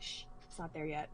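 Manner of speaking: very soft, hushed brush-off; shushing mom. Retold or imitated. Mom hushing her daughter during the show, very softly. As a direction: wave them off quietly, eyes on the screen. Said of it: "She's like".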